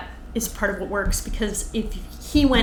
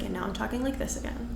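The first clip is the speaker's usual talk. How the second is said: mock calm-down; 11 dB quieter, faster than usual. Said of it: "after she hits that punchline... comes back down".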